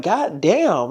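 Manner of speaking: slow, dragged-out exasperated goddamn; drawn-out goddamn. Retold or imitated. Venting about gossip videos, a slow fed-up goddamn. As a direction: stretch the goddamn out in disgust.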